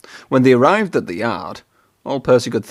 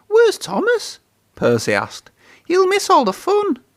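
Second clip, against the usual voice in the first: high, anxious little engine; small engine anxious; worried Percy. A narrator's reading. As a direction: ask around fretting.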